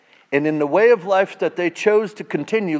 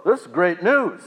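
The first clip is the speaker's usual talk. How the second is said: a higher, louder pretend whoa; mock delight; 5 semitones higher, 7 dB louder than usual. Listener pretending delight at the good news, mock excited. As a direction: play the thrilled listener. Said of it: "You're like".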